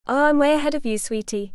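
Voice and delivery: cheeky sing-song tease. Acted. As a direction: lilt it playfully, teasing. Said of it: "he sing-songed with a cheeky wink".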